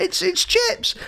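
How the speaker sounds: high-pitched, eager-to-convince imitation; retold insisting. Retold friend insisting it's his mate.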